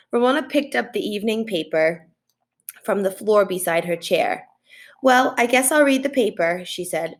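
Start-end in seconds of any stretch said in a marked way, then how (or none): 5.0-6.6 showing off. Acted. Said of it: "showing off for Howie's grandmother".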